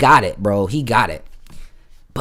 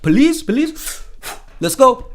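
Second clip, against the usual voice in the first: alarmed Israeli guys; 12 semitones higher, slower than usual. Retold or imitated. The two guys hearing police, high alarmed yelp. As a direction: jump at the word like it burns. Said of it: "They were like".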